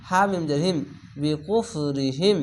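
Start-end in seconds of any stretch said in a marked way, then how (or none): 1.2-2.4 very slow drawn-out Quranic chant; tajweed recitation demo. Shown as a demonstration. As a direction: stretch every syllable of the word. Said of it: "স্লোভাবে একটু পড়ছি কেন".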